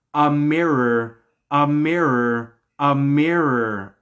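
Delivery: A MIRROR repeated slowly, stretched to echo "Amir"; drawn-out wordplay. Shown as a demonstration. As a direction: linger on each A MIRROR, "uh-MEER-er".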